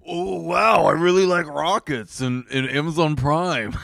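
lightly voiced mock billionaire; awed tech-boss caricature; Jeff Bezos. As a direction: loose impression of a gushing tycoon. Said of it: "what about Jeff Bezos?".

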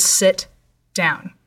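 slow command with a pause between words; understated order, each word set apart; measured retold command. Man in the dark orders her to sit, measured and deliberate.

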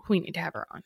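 hushed spooky whisper. Acted. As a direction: breathe it out in a whisper.

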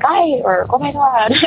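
high, mild yelp of fright, retold; mock startled scream. Daughter imitating her mom startled in the kitchen, mock fright. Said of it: "scream at me, like, in fear".

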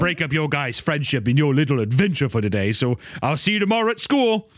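sugar-coat the excuse; high falsely innocent kid. Acted. Arthur voiced sweetly, higher.

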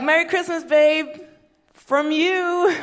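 high, syrupy fake-sweet voice; sugary mock sweetness. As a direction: coo it at him sweetly with a sting. Mock sweet gift to husband.

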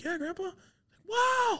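mock awe. Quoting grandpa's awe.

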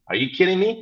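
disbelieving, pitch jumps up; incredulous. Real, not acted. Outraged rhetorical question.

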